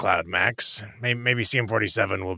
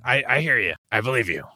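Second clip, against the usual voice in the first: ordinary talk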